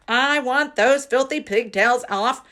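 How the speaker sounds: high loud furious bark. A narrator's reading. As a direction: bark the order at the girl. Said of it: "she barked".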